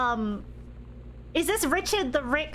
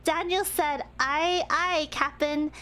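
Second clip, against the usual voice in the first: put-on baby voice; 3 semitones higher than usual. Shown as a demonstration. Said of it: "I need to read this in the baby voice".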